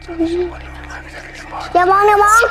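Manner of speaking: hushed urgent whisper. Real, not acted. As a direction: breathe it out, barely voiced. Scary game, urging not to look.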